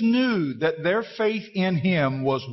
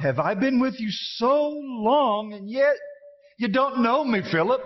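exasperated Jesus; 5 semitones higher than usual. Acted. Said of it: "hear the frustration in his voice".

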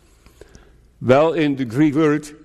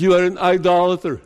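the Lord accusing; 3 semitones higher, faster than usual. Retold or imitated. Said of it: "The Lord says".

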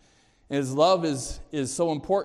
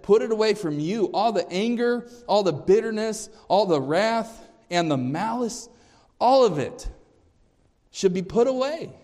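preacher hammering the verse; rising emphasis; 5 semitones higher than usual. Acted. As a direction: build each item with force. Preacher building through the list.

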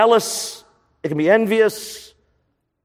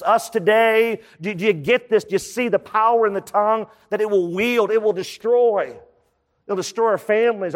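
higher-pitched, pressing questions building to warning; urgent insistence; 4 semitones higher than usual. Retold or imitated. James to Jewish believers and us today, urgently insistent. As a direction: press the audience hard, pitch raised.

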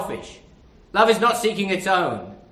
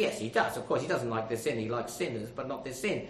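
quieter, glib pious reply; imitating a glib churchgoer, quieter and softer; mock glib answer; 8 semitones lower, 11 dB quieter than usual. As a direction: mimic a pat churchy answer, dropped low. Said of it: "You say".

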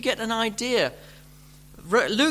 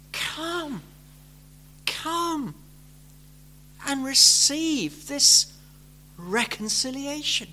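gentle invitation; 2 semitones higher, slower than usual. Shown as a demonstration. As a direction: coax them in tenderly. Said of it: "God is gently urging you".

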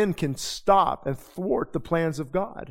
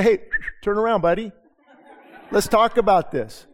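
put-on old nature provoked; 4 semitones higher, 3 dB louder than usual. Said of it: "the old him wanted to say".

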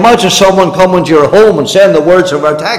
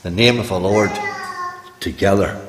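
quiet reverence; 3 semitones lower, 6 dB quieter than usual. Shown as a demonstration. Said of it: "He said".

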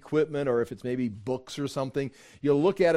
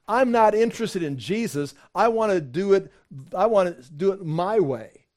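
louder, higher defiant voice; mock defiant shout; 4 semitones higher, 4 dB louder than usual. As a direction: bark it like a stubborn rebel. Preacher quotes defiant sinner, rising.

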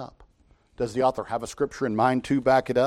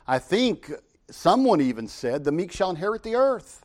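higher, mock-innocent sarcasm on the quote; mock sarcastic quote; 5 semitones higher than usual. Shown as a demonstration. Preacher demos sarcastic quoting to the congregation, mock-innocent. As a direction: feign not knowing who said it. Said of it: "to be a little bit sarcastic".

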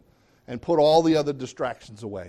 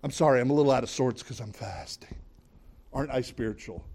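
mopey martyr. Retold or imitated. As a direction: play the suffering saint for show. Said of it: "And people say".

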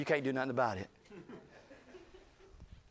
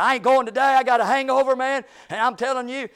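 1 defiant refusal; 9 semitones higher, 10 dB louder than usual. Retold or imitated. Hungover coworker refusing church.

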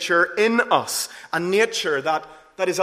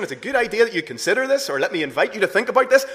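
quick, casual, offhand invitation; mock soft suggestion; 4 semitones higher, 5 dB louder, much faster than usual. Preacher mocking a weak version of Jesus' words, breezy and fast. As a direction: toss it off lightly as a polite option. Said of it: "It's not that Jesus is saying".

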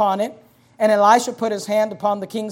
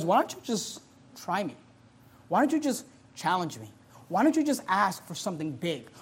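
soft, inviting God's voice; gentle challenge; 4 dB quieter than usual. Acted. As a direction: coax them to trust.

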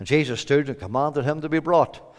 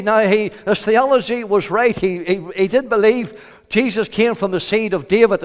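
raised, forceful sermon voice; higher, emphatic preacher's delivery; fervent preaching; 7 semitones higher, 8 dB louder than usual. Real, not acted. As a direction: press the point home from the pulpit.

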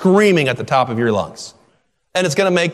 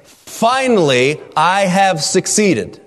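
triumphant; 4 semitones higher, slower than usual. Retold or imitated. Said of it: "It's saying".

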